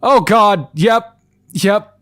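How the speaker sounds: high giddy exclamations; loving this moment; excited. Real, not acted. Reacting with glee.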